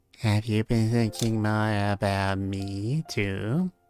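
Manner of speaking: put-on baby voice. Voicing Anastasia on a streamed VOD, a baby voice imitating Nana. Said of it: "my baby Anastasia voice".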